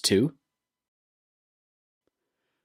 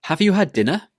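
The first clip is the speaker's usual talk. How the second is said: "Have you had dinner?" higher, rising at the end; rising intonation; 8 semitones higher, faster than usual. Shown as a demonstration. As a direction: swing up on "dinner?". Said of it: "needs to go up at the end".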